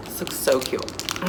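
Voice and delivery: soft breathy whisper of delight. Real, not acted. Admiring a doll accessory, whispering to herself. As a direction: whisper it to yourself, charmed. Hushed aside while unboxing.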